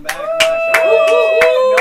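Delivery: high squeaky greeting. Acted. Greeting returning player.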